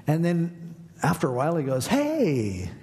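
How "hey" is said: stranger calling out. Retold or imitated. Stranger calls out after a while, drawn-out call. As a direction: imitate a man calling out.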